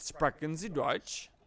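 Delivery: put-on German accent. Asked how to do German, showing a German accent. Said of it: "you have, like, an actual German accent".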